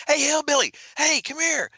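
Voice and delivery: high-pitched mock hail across a bar; mock calling out. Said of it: "yelling at me as I'm walking by the bar".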